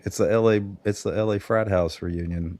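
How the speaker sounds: stuffy nose from a cold; talking through a head cold; congested. Real, not acted. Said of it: "sound a little congested".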